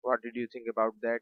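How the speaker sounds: slow, clear teacher dictation; carefully paced classroom demo; slow model sentence. Shown as a demonstration. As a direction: spell it out slowly for the class. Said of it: "teacher models English sentence".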